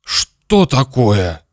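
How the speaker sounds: slow, drawn-out disbelief; stunned father. Acted. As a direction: stretch it out as if reeling. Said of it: "Папа как-то странно задрожал".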